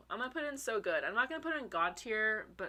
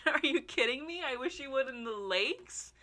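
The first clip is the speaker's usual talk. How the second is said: excited disbelief; 5 semitones higher than usual. Real, not acted. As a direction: squeal it out in delight. Thrilled reaction to song pairing.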